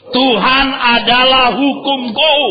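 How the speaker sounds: high, loud, slow declaration. Shown as a demonstration. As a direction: proclaim it boldly and slowly. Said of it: "Lebih keras". (katakan lebih keras dan tegas)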